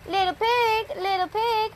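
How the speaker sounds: high sly wolf calling. A narrator's reading. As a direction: coax the pig like a sneaky wolf. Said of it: "said the wolf".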